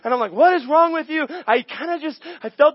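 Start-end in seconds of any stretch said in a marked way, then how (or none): 0.3-1.3 higher and louder, fed-up owner; exasperated. Retold or imitated. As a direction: vent at the stubborn dog. His own frustration at dog.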